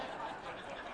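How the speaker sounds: soft unvoiced chuckle; short, quiet real laugh. Real, not acted. Preacher amused by his own Haman bit, chuckling softly.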